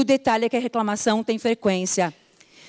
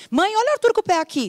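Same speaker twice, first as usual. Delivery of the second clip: higher, fast tattling to mom; whiny child; 9 semitones higher, much faster than usual. Retold or imitated. Child tattling to mom about Arthur, higher and fast. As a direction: tattle on your brother. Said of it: "tá reclamando".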